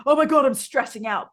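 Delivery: high, loud mock freak-out; hammed-up panicked outburst. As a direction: blurt it like someone frazzled and stressing out. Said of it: "it's not like".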